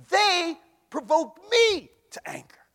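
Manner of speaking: sudden whispered line; God's words whispered to the church. Acted. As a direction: drop to a hushed whisper.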